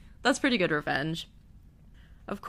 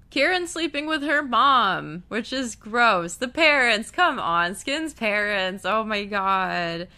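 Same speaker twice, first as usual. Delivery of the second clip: higher, louder exasperated dismay; grossed-out disbelief; 4 semitones higher, 5 dB louder than usual. Real, not acted. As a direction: draw it out, appalled by the twist. Grossed out recapping a plot twist.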